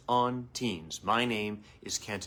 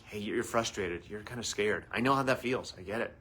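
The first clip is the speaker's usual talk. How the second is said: gentle validation; 3 semitones lower, 5 dB quieter than usual. Shown as a demonstration. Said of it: "first acknowledge".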